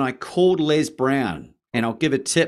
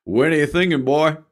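louder, higher booming mentor voice; Les Brown voice; 4 semitones higher, 7 dB louder than usual. Retold or imitated. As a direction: toss the question back warmly like an elder. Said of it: "And he said".

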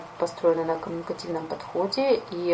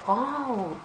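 impressed wow; 4 semitones higher, 6 dB quieter than usual. Shown as a demonstration. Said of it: "some emotional reaction".

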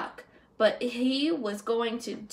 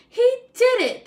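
loud, high triumphant cheer; 12 semitones higher, 8 dB louder than usual. A narrator's reading. The crowd cheering Stanley's success, loud and high. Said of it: "they cheered him".

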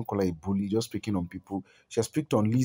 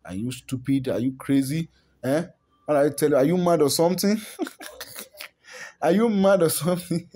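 mock angry outburst; 3 semitones higher than usual. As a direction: play the vexed aunt working herself up. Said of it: "vexed up, like".

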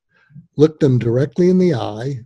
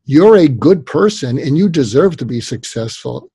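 mock affirmation. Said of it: "Give me a effing break".

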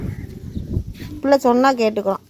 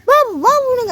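raised, punchy mock woofs; dog bark imitation; 9 semitones higher, slower than usual. Shown as a demonstration. Quizzing the child on animal sounds, imitating barks. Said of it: "வான்னு கத்துமே, அதுக்கு பேர் என்ன?".

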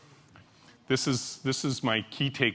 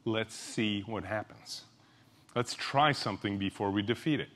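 softer, steady, disarming reply; gently defuse the objection; quiet reassurance to a sceptical coworker; calm and reassuring; 3 semitones lower, 6 dB quieter than usual. Shown as a demonstration. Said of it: "Look 'em in the eye and say".

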